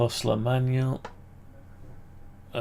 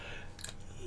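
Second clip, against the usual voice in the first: big yawn; 19 dB quieter than usual. Real, not acted. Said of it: "Don't know why I'm yawning".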